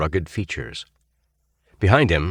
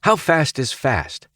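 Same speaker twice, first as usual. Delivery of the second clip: stern quizzing; 8 semitones higher, slower than usual. A narrator's reading. Quizzing cadets.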